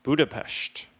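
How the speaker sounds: "Budapest" ending in a hushing sht; Budapesht pronunciation. Shown as a demonstration. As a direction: pronounce "Budapest" as Budapesht, like Sean Connery. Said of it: "kinda like Sean Connery".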